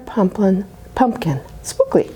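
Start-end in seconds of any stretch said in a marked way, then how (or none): 1.6-2.1 breathy high spooky name; eerie whispered title. Acted.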